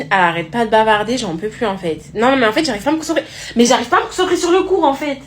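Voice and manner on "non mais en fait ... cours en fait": higher-pitched, protesting whine; exasperated pupil complaint. Acted. Pupil telling the teacher she can't concentrate, exasperated complaint.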